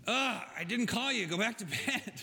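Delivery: put-on a mild old priest shooing the boy off with a laugh; sleepy old Eli. Old Eli woken again.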